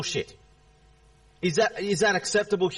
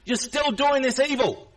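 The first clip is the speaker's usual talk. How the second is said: angry accusation; 4 semitones higher than usual. Real, not acted. Angry confrontation with chat user.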